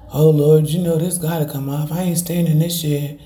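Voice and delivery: fervent prayer. Acted. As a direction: pray it out with conviction. Prays aloud to the Lord.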